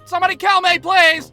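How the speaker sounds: high, loud mock despair; desperate plea. Humiliated kid in class, high desperate cry. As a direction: beg to be put out of misery.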